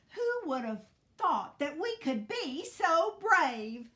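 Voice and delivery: high, loud, swooping wonder; giddy amazement. A narrator's reading. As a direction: marvel giddily at your own bravery. Hen marvels, giddy from victory.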